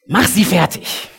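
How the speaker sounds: high, loud, slow battle cry; a mocking zealot shouting for destruction; furious demand. Disciples' power fantasy voiced.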